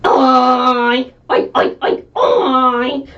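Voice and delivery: pig oink. Acted. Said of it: "And George went".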